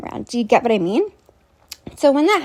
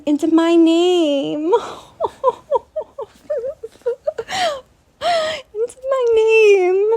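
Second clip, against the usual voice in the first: high, squeaky laugh-cry through the words; laughing so hard it breaks; cracking up in disbelief; 10 semitones higher, slower than usual. Real, not acted.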